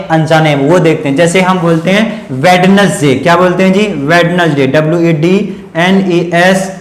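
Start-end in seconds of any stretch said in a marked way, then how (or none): 2.4-3.1 वेडनेसडे with the D sounded; wrong pronunciation. Shown as a demonstration. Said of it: "हम गलत बोल देते हैं". 4.0-4.7 वेडनेसडे with the D sounded; वेडनेसडे as spelt, d not silent; wrong pronunciation. Shown as a demonstration. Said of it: "हम गलत बोल देते हैं".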